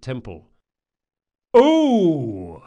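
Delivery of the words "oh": long, high bellow; battlefield bellow. A narrator's reading. Eyeless priest calling to the temple crowd, bellowing. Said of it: "he bellowed in a voice that would have been at home on a battlefield".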